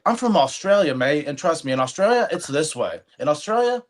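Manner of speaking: hammed-up Australian boasting about home; mock Australian accent. Telling coworker girls how Australians brag, in a mock Australian accent. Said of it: "Australian people are constantly like".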